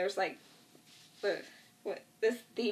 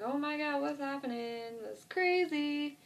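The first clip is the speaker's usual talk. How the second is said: lightly acted, higher-pitched disbelief; mock bewilderment; 7 semitones higher than usual. Retelling a man looking around at overturned cars, mock bewildered. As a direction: draw out a raised, bewildered reaction. Retold reaction to wrecked cars.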